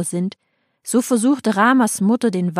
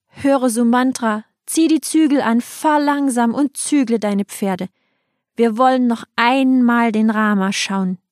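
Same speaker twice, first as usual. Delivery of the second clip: raised, pleading call; crowd calling out; 4 semitones higher than usual. Acted. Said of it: "riefen laut".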